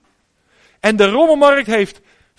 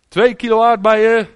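slow, louder calling out of a stall holder; market vendor calling out; 5 dB louder than usual. Retold or imitated. Preacher imitating a market trader calling out, slow and louder. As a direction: hawk the strawberries to the passing crowd. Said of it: "die blijft maar roepen".

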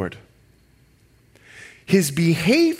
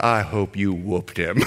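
gruff mock shout, a lot lower; mock fathers' shout; 8 semitones lower than usual. Preacher imitating fathers who approve the spanking, lower and shouted. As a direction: bark it out like a stern dad. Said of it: "The fathers right now are like".

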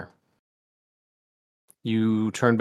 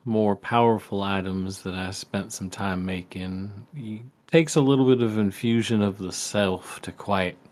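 folksy dad voice. Acted. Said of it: "folksy voice he always used to do".

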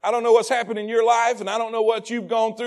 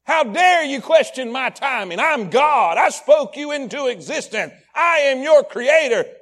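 stern rebuke; 4 dB louder than usual. Pretend. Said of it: "with all right to say".

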